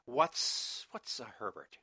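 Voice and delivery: mock-timid, halting question; tentative, imitated timidity with a false start. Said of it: "like, timidly".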